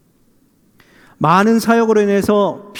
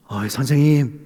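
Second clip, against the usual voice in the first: low, casual hail; everyday "hey, mister" address; passerby rousing a drunk; 5 semitones lower than usual. Acted. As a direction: call offhandedly to a slumped stranger. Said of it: "술 취해서 쓰러져 계시면".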